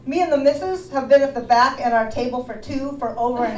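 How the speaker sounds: a loud, pushy diner complaining to the waitress; gruff cat customer. Retold or imitated. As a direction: play the bully cat as a rude customer. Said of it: "he's coming down the hallway".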